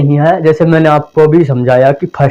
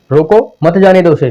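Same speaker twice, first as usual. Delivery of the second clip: "रोको" with a lift, then "मत जाने दो उसे" together; short break after रोको, मत joined to जाने; 3 semitones higher than usual. Shown as a demonstration. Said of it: "आप कहेंगे".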